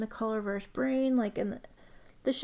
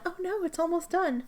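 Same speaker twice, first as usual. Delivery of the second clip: higher, playful fake panic; mock dismay; 7 semitones higher than usual. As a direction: ham up a little oh-no wail. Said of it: "This is the time when I'm like".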